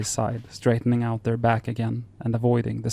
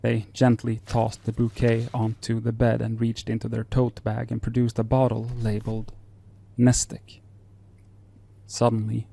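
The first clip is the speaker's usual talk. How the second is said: story narration. Acted.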